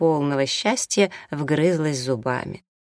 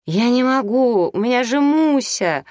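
crying; 9 semitones higher, 5 dB louder than usual. A narrator's reading. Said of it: "плакала Татьяна". (плачущим голосом, выше и медленнее)

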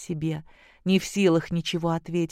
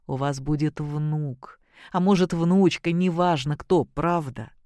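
quiet and solemn. Acted. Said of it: "проговорил тихо и торжественно".

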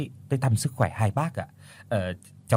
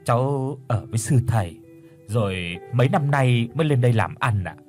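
low sad voice. Acted. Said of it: "đáp bằng cái giọng trầm buồn".

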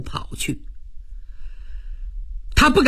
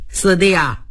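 slight smile; 4 semitones lower than usual. Acted. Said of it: "微微一乐".

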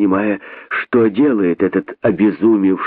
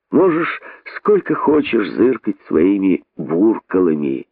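higher, indifferent rabbit retort; higher-voiced rabbit shrugging off the boa; 4 semitones higher than usual. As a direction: answer up high like a bored rabbit. Resourceful rabbit answers the boa.

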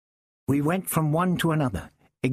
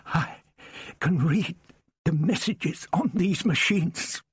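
hoarse; 5 semitones higher, slower than usual. A narrator's reading. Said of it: "he said hoarsely".

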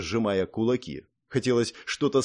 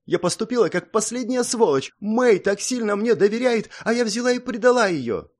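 distraught confession; 10 semitones higher, 3 dB louder than usual. Acted. Song confesses betrayal, distraught.

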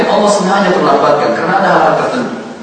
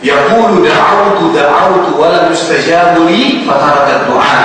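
solemn, unhurried recitation of the hadith; slow Arabic recitation; slower than usual. Acted. Preacher quoting the Prophet's answer, slow recitation. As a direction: draw out the Arabic words slowly.

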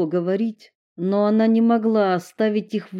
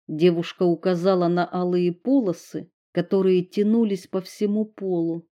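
ordinary delivery

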